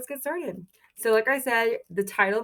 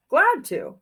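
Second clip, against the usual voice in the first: 1 cheerful goat; 8 semitones higher, 6 dB louder than usual. Acted. Goat character answers in story.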